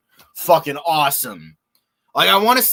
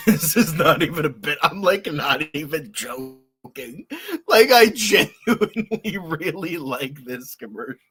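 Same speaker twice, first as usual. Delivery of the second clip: laughing; 3 semitones higher, 4 dB louder than usual. Real, not acted. Laughing insisting it's no bit.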